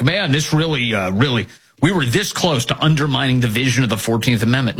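low, offhand mock quote; casual liar. Host mimicking people who lie so casually, offhand. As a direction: toss it off casually, mocking them. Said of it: "they lie so casually".

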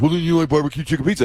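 fast, triumphant imitation of the friend; quick mock gotcha from the friend; buddy's voice. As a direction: rattle it off like the smug buddy. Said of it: "that's exactly how he talked".

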